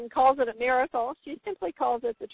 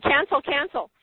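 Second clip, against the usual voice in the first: inner cancel; 4 semitones higher than usual. Retold or imitated. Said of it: "Carolyn said in her mind".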